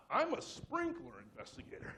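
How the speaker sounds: very high, slow, stretched-out claim; panicked bluff. Retold or imitated. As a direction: blurt the cover story in a high, panicky voice. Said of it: "I panicked".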